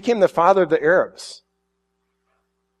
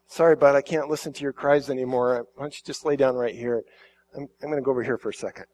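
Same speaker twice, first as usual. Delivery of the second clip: softer and softer, a tired mother giving up; mild weary Hagar; 2 semitones lower, 5 dB quieter, faster than usual. Retold or imitated. Hagar softly tells her dying son to lie down. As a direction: let it fade as she turns away.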